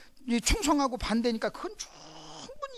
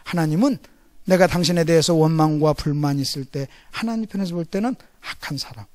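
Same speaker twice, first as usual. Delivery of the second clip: ordinary talk, nothing marked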